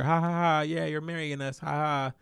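mock "ha ha" laugh, a bit high; put-on amused chuckle, humoring her; playing along, laughing. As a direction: imitate laughing along with a joke. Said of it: "I'm laughing, joking, playing along with her".

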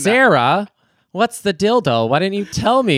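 high pretend reproach; imagined outraged boss. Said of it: "corrects her and she's like".

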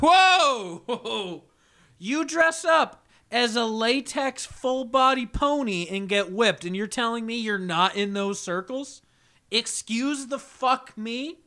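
high, stunned disbelief that breaks into laughter; incredulous mock outrage. Retelling to cohost his reply to the pony guy, high mock-shocked disbelief. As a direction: pitch it way up like you can't believe him.

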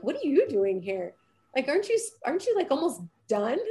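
shop clerk surprised. Retold or imitated. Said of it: "They're like".

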